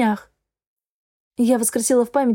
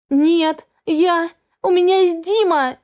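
desperate plea; 6 semitones higher, slower than usual. A narrator's reading. Daughter clinging to her love before her father, desperate and higher. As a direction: cry it out as the last thing she has.

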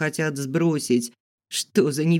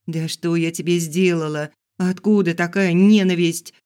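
snapping back; 3 semitones higher, 4 dB louder than usual. Acted. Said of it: "огрызнулась я".

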